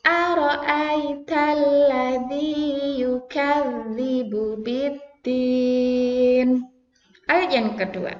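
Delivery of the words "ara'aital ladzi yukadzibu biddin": slow, drawn-out chanted verse; slow recitation. Shown as a demonstration. Teacher recites with the class, slow and drawn out. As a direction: stretch each long vowel. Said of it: "Sekali lagi".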